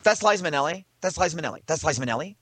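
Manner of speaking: questioning, disbelieving echo; incredulous repeating. Retold or imitated. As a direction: repeat it as if you can't believe it.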